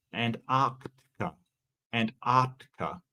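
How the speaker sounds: lightly British "Antarctica", r dropped; careful, slightly British "Antarctica" with no r in "tar"; British-sounding. Shown as a demonstration. Streamer testing how to say Antarctica for viewers, lightly British. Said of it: "now I'm sounding like a British person".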